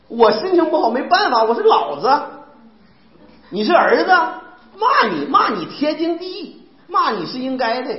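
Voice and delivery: mock a domineering parent telling off a child; scolding parent.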